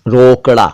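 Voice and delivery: रोकड़ा with a flapped ड़ before the final a; correct flap. Shown as a demonstration. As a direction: flick the ड़ in रोकड़ा. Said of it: "इससे बना रोकड़ा".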